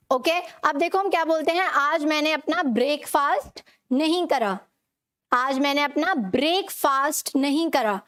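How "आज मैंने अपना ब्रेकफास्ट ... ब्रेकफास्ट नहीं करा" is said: full "ay" and long "aa" in ब्रेकफास्ट; common mispronunciation. Shown as a demonstration. Teacher quotes how people usually say it, ब्रेकफास्ट mispronounced as "brake-faast". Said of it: "लेकिन हम इसे गलत बोलते हैं".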